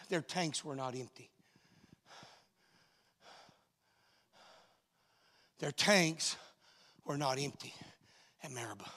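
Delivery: slow and deliberate, word by word; preacher slowing down so the church gets the facts; slowed down for emphasis. Shown as a demonstration. Slow, deliberate sermon point. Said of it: "I'm gonna slow down 'cause I want you to get these facts".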